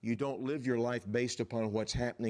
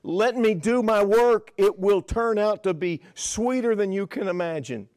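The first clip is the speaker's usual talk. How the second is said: voice of the Lord; 8 semitones higher, 10 dB louder than usual. Acted. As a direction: proclaim it as God speaking over the hardship.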